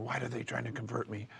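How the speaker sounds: hushed suspicious question; retold whisper. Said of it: "he's whispering".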